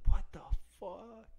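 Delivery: high, slow, loud outraged cry; angry quote. Retold or imitated. Finding the toothbrush off the charger, outraged shout. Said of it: "I was like".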